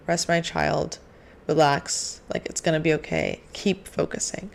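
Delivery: hushed, tender, fading to a breath; a gentle, reassuring whisper; calm soft divine voice. Retold or imitated. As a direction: comfort a tired child. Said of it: "God talks in a very calm, soft tone".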